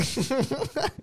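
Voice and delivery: very high-pitched mocking echo. Host teases friend over mixed-up holiday, mock echo. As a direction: squeal the word in playful mockery.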